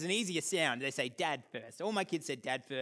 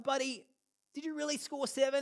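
gentle doubt; 8 semitones higher than usual. Retold or imitated. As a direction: ask it gently, half believing. Gently questioning son.

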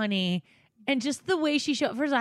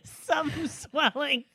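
quoting through laughter; laughing while talking; 3 semitones higher than usual. Retold or imitated. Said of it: "There's gonna be".

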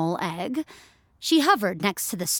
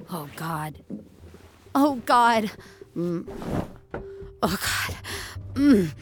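nauseous groaning; slower than usual. A narrator's reading. Sick at night, retching.

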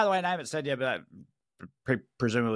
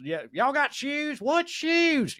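high hammed-up hillbilly salesman voice, climbing higher; hick shoe salesman; 11 semitones higher, slower than usual. Picturing Tennessee Williams' father selling shoes, high mock hick voice. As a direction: play a bumbling Mississippi shoe peddler for laughs. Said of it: "picture this guy walking around".

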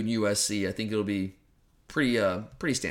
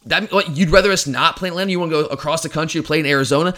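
mock listener outcry, pitched up and louder; protesting listeners; 4 semitones higher, 4 dB louder than usual. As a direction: imitate an indignant fan protesting, mildly raised voice. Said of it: "screaming at your phones or your radio".

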